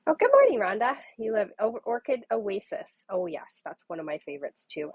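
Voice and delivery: usual speaking voice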